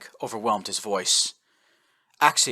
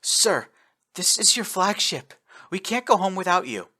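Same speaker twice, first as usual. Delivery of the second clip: high, louder pleading; tearful protest; 9 semitones higher, 4 dB louder than usual. A narrator's reading. Officer to dying admiral, high tearful plea. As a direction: beg him not to leave.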